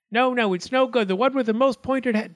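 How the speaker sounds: high-pitched, indignant little arguer; squabbling acorn. A narrator's reading. Pointed acorn argues before the judge, high and boastful. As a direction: pipe up to contradict, high and insistent.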